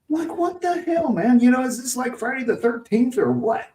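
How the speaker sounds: high, laughing incredulous rant; laughing disbelief. Real, not acted. Telling the co-host about the upset stations, laughing in disbelief. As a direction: laugh through the disbelief at it all.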